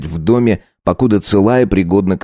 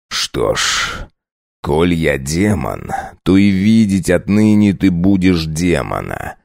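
menacing vampire; slower than usual. Acted. Vampire husband threatens his wife.

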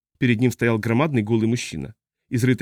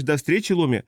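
lightly mimicked goodbye, pitched up; mock quoting; 4 semitones higher than usual. Old pilot parrots the captain's usual goodbye, lightly mocking. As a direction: quote her goodbye back at her, a touch higher. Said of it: "всегда говоришь".

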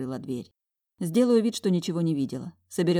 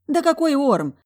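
exasperated; 10 semitones higher, 8 dB louder than usual. Acted. Talya annoyed at teasing.

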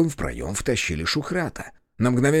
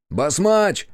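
loud call down the stairs; 8 semitones higher, 4 dB louder than usual. Acted. Yurkan calls down the stairwell, loud. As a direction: shout a name down into the dark. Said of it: "окликнул он".

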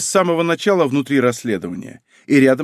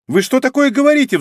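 much higher, louder indignant squeal; shrieked; 12 semitones higher, 5 dB louder than usual. A narrator's reading. Exposed con man protesting to the detective, shrieking. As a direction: squeal in outraged disbelief. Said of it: "взвизгнул мужчина".

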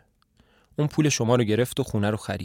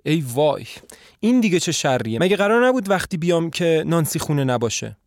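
dismayed alarm; 5 semitones higher, 3 dB louder than usual. A narrator's reading. Visitor dismayed, plan spoiled.

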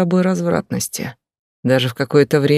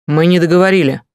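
louder, commanding; forceful; 3 semitones higher, 5 dB louder, faster than usual. Acted. Husband stopping wife leaving the cafe, loud and forceful. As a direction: hit договорили hard and final.

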